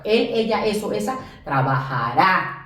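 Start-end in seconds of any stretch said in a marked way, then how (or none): 1.4-2.6 slow, low trabajará with stressed final á. Shown as a demonstration. Teacher showing the él ending, trabajará stressed on final á. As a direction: stretch trabajará onto its last á. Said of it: "con acento en la A al final".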